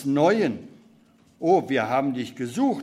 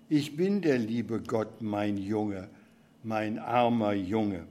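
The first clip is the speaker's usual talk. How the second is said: put-on lower, softer, tearful old man; a tired old God, whimpering lightly; weinerlich; 6 semitones lower, 4 dB quieter than usual. Old God answering Beckmann, lower and softly tearful. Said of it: "Und Gott antwortet weinerlich".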